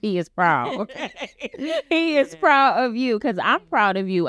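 put-on high, swooping, sing-song babyish voice. Reassuring a guest about her son, speaking in baby voice. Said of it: "in baby voice".

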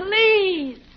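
pleading, begging tone. Asking Dad to open the present: begging. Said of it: "you're begging me?".

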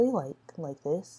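very soft, hushed, quietly spoken. Showing how the audio looks when talking softly: talking softly. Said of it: "I can see when I'm talking softly".

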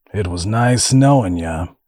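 plain reading voice

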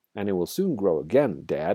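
ordinary delivery

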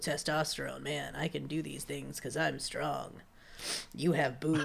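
very low, very quiet, creaky, gruff macho man voice. Mocking people who point out their strength, in a put-on man voice. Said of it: "that's our man voice".

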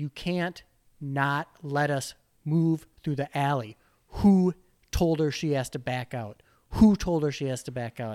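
angry outburst, loud, lost-it screaming. Retelling confronting men blocking an alley: imitating own screaming. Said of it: "I'm just, like, screaming at them".

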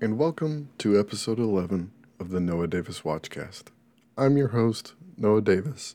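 soft, public-radio podcast host style voice. Podcast host opening episode 11 of his show, using an NPR podcast voice. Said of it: "I'm talking like an NPR podcast".

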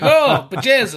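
put-on loud Scottish accent. Describing Hemlock's entrance on the show: Hemlock's Scottish accent. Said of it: "That's not a bad Scottish accent".

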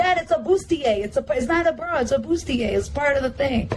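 high, insistent, arguing tone.

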